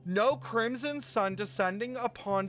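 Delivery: dramatic narration. Acted. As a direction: build each "no" like a lament. Dramatic reading of game text.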